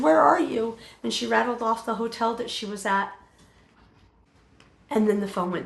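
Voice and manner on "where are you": higher, louder urgent cry; mother desperate to find her daughter, panicked; panicked question. Retold or imitated. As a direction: demand it in a panic, high.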